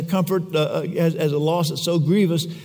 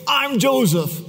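higher, tearful giving in; mock tearful confession, higher voice; breaking down in tears; 8 semitones higher than usual. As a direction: let it crack as he gives in. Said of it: "Joseph breaks down in tears and says".

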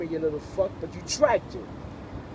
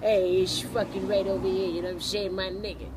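put-on Brooklyn accent. Prankster showing a stranger his Brooklyn accent, hammed-up Brooklyn accent. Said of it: "you wanna hear a Brooklyn accent?".

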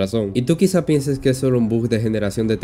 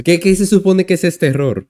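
higher, louder stammered question; baffled exclamation; 7 semitones higher, 6 dB louder than usual. Real, not acted. Narrator confronted with a strange game error, baffled. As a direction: burst out in bewildered disbelief.

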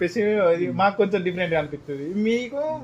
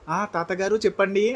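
mock polite grandson. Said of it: "అని చెప్పేసి మాట్లాడతాడు".

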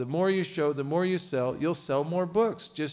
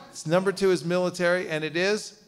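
louder military call; 3 semitones higher, 4 dB louder than usual. Shown as a demonstration. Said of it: "You're kicked out of the military".

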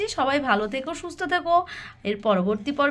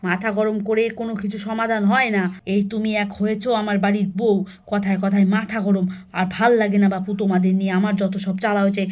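a hint of a lower-voiced, weary elder; lightly voiced grandmother, fed up; 3 semitones lower than usual. Grandmother chides her daughter-in-law, mildly exasperated and lower.

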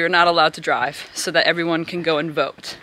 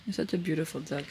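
soft pet talk; 5 dB quieter than usual. Real, not acted. Talking to a duck.

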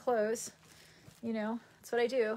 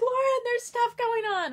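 higher, louder worried parent voice; mock worried parent; 11 semitones higher, 5 dB louder than usual. Parents warning about the news, mock worried. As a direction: imitate her anxious parents.

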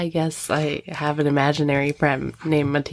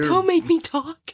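high squeaky whine; squeaky silly voice; 10 semitones higher than usual. Pretend. Jokey refusal to talk.

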